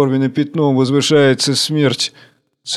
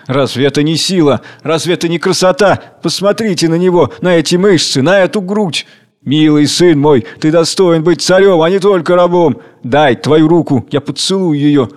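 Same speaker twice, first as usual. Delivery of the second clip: rapturous, higher praise; admiring ecstasy; 3 semitones higher, 3 dB louder than usual. Acted. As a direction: adore the strong worker. Tsar admires the worker. (восхищённо, порывисто)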